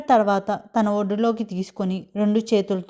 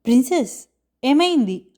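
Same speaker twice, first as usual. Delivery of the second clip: worried question, pitched higher; raised, concerned voice of narrated dialogue; anxious; 4 semitones higher, 4 dB louder than usual. A narrator's reading. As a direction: ask with anxious concern, voice lifting. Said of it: "ఆందోళనగా అడిగాడు".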